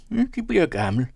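high, amused ribbing; smiling teasing. A narrator's reading. Host teases the narrator, smiling and high-pitched. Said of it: "sagde han smilende".

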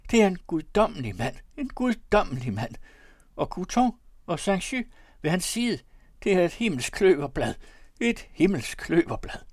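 high, loud, piping praise; excitable high-pitched merchant; falsetto voice. A narrator's reading. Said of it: "med sin fistelstemme".

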